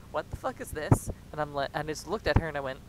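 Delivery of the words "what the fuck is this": imitating mom, louder; a mock exasperated raised voice; mom's louder question. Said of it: "she's like".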